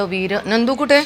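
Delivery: high, eager question; excited pet question. Real, not acted. Owner asking her dog where his friend is, excited. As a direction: ask him with excitement.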